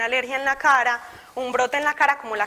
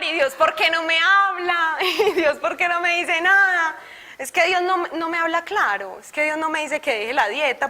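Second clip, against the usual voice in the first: raised, pleading voice, a hint of tears; mock crying plea; 4 semitones higher than usual. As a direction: beg God, half-crying as she retells it. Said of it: "empiezo a llorar". (súplica llorosa, medio actuada)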